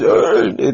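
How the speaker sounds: loud imitated grunt; mock grunt. Mimicking a co-host's grunt on air, loud mock grunt. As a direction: grunt it out in annoyance. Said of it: "Why are you just grunting?".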